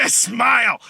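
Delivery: high laughing call of the word; laughing high echo; laughing shout. Real, not acted. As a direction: shout it back while laughing.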